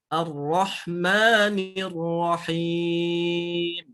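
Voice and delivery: very slow chant of Ar-Rahmanir Rahim with the tasydid pressed; slow model recitation. Shown as a demonstration. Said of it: "harus diperhatikan tasydidnya".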